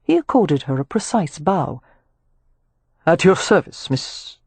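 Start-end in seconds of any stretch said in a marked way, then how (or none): 3.0-4.4 a hint of a smooth male voice; lightly voiced Rowan. Rowan greeting Amelia, lightly voiced courteous man.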